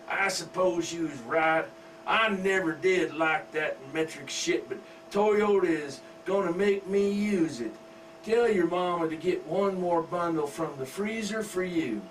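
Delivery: lightly voiced father soothing his girl; father coaxing his daughter from the recliner, mildly hammed; doting redneck dad. Father gives in.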